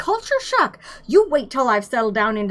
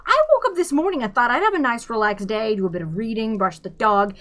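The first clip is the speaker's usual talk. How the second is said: indignant complaint; 6 semitones higher, faster than usual. A narrator's reading. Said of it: "complained Arthur".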